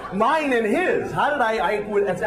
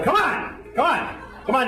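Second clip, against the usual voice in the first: high, pumped-up coaxing; yoga teacher cheer; 5 semitones higher than usual. Retold or imitated. Teacher urging strangers in class, high coaxing chant. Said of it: "And he's going".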